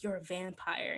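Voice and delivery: hushed whisper of realization. Retold or imitated. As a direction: breathe it out with no voice, barely audible. Bella naming Edward's secret.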